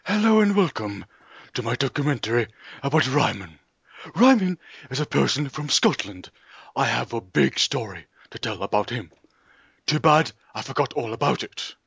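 measured mock-documentary host delivery; documentary presenter. Host opens a documentary about Ryman, documentary presenter. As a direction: introduce the subject and expert, deadpan.

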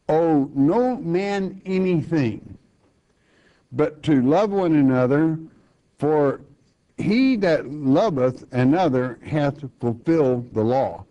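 slow, measured reading of the verse; scripture reading. Acted. Preacher to congregation, measured scripture reading. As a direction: give the old words their weight.

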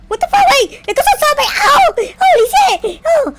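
high, loud panicked yelling; screaming panic. Real, not acted. Player attacked by zombies, screaming high and loud.

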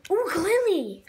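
delighted high "Ooh, Glalie!"; thrilled at the card pull; excited. Real, not acted.

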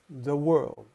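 "The world" said as "de world"; TH becomes D. Shown as a demonstration. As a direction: soften the TH of "The" down to a D. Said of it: "The T H becomes a D".

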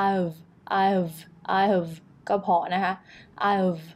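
"I've" reduced to one short unit; contracted I've. Shown as a demonstration. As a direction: shrink "I have" into a quick "I've". (ย่อเหลือแค่ I've สั้นๆ)

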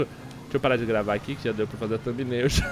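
ordinary delivery

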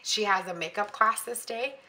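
throat catching, about to cough; choking. Real, not acted. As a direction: talk with something caught in throat. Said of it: "I'm, like, choking".

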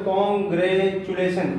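कांग्रेचुलेशन in separate, countable beats; measured teaching split of कांग्रेचुलेशन; syllable by syllable. Shown as a demonstration. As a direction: say कांग्रेचुलेशन with small breaks between its parts. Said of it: "इनको बोलने पर देखो".

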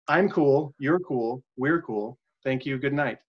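flat line reading with no inflection; even, uninflected quote; monotone read. Shown as a demonstration. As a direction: read it deadpan so nobody can tell who said it. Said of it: "I'm not gonna read it any kind of inflection".

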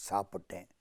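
low, very soft admission; guilty confession. Acted. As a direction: own up in a small, sunken voice.

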